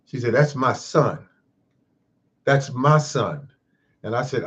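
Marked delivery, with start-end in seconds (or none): 0.3-3.5 indignant retort, pitched higher; retold angry tone. Mother defending her sleeping son to a stranger, mock angry. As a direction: imitate an affronted mother, slowing on the repeat. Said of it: "angry kind of tone".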